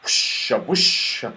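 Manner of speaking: slow, airy whisper of rustling trees. Acted. The trees whisper loudly to each other, slow and airy. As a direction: breathe it out like wind in leaves.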